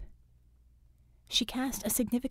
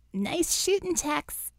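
higher, easy drawl; 8 semitones higher, slower than usual. A narrator's reading. Bella to Scope after the kill, higher drawled praise. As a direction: toss out a lazy compliment. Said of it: "drawled Bella".

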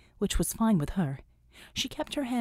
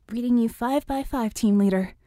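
formal; 3 semitones higher, 4 dB louder than usual. Acted. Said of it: "Vicky said formally".

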